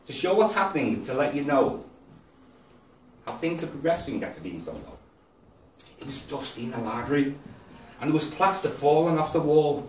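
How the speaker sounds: rhythmic spoken-verse delivery; poem recital. Real, not acted. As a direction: recite it line by line, pausing after each phrase. Reads own poem to audience.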